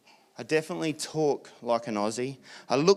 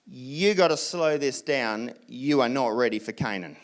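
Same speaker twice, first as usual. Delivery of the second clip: put-on a touch of God calming eager children; God cautioning; 3 semitones lower than usual. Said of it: "And God's like".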